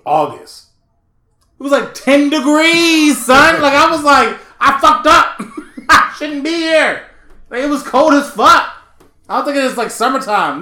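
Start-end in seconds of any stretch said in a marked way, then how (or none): 1.6-8.7 higher, louder, exasperated rant; worked up. Real, not acted. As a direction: rant about the freezing cold. Complaining about cold trip.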